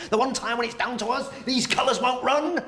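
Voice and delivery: borrow the pep talk and fall flat; uninspiring copy. Acted. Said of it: "When you say it, sounds like bollocks".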